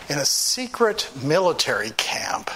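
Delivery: hushed whisper of a scared thought. Retold or imitated. Alone in the dark tower, scared, whispering. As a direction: breathe it like a secret.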